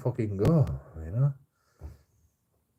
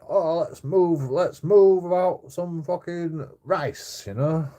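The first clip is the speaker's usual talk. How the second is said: high, slow put-on caller voice; mock a foreign phone fundraiser, drawn out; foreign charity caller voice; 6 semitones higher, slower than usual. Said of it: "people on phones going".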